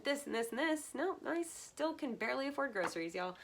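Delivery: laughing through the words; amused self-mocking laugh. Real, not acted. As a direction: joke about money, breaking into laughter. Joking about being broke.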